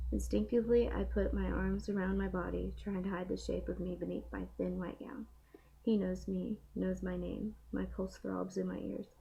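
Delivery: steady storybook reading; reading aloud. Acted. Reads a novel passage aloud.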